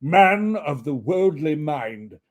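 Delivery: slow solemn ghost. Acted. Ghost questioning Scrooge, slow and solemn. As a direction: intone it gravely.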